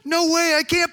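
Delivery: high, stunned exclamation with a drawn-out "what"; shocked disbelief. Acted. Preacher playing the listener's reaction to God, in shocked disbelief. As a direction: act out being floored, pitch leaping up. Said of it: "you're gonna step back and go".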